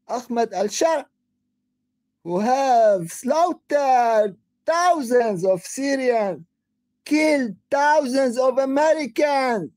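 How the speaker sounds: shouting. Real, not acted. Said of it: "sorry, I've been shouting".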